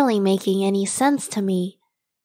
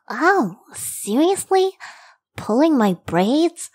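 pained surprise; 6 semitones higher than usual. Real, not acted. Braids pulled, annoyed.

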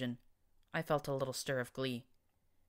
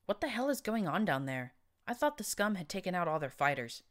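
sour; 4 semitones higher than usual. Acted. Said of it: "he said sourly".

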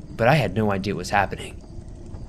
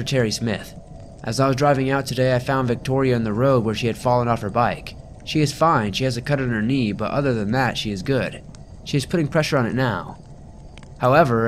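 lightly voiced breathless phone call; a hint of panting behind the polite words; out of breath. Calling the girl's mother, a touch breathless. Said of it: "I said out of breath".

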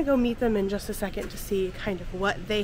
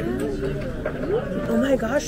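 high, slow, delighted gasp; 8 semitones higher, much slower than usual. Real, not acted. Gushing over a pretty pin.

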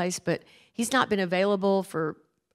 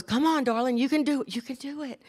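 higher coaxing voice, imitating a mother, fading soft; encouraging mom; 3 semitones higher, 4 dB quieter than usual. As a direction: coax the child on, dropping away at the end. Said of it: "and Mom goes".

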